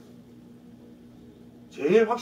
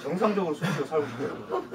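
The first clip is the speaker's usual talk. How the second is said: laughing. Real, not acted. Joking lament after exercise.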